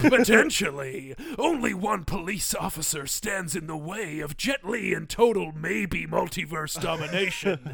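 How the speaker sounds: booming trailer narrator; movie trailer voice. Shown as a demonstration. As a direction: epic trailer announcer read. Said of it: "I'm gonna try and do my best movie voice, uh, impression".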